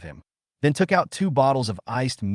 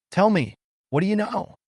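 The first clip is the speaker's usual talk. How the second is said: angry demand; 10 semitones higher than usual. A narrator's reading. Slams the table demanding answers.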